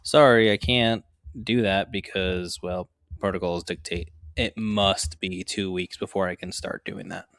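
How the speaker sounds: slow, stiff by-the-book refusal; rigid and strict. Retold or imitated. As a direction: spell out the rule slowly and firmly. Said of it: "that hard".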